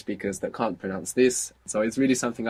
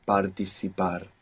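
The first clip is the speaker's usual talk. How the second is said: syllable by syllable; 3 semitones lower, 4 dB quieter than usual. Shown as a demonstration. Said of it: "take it syllable by syllable".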